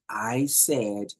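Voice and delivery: slow, over-deliberate words; drawn-out, talking-down delivery; sarcastic. Shown as a demonstration. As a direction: spell it out slowly with condescending sarcasm. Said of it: "sarcasm, like".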